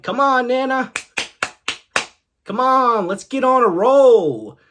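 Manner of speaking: loud, high impatient urging; acted urging. Acted urging of struggling Nana.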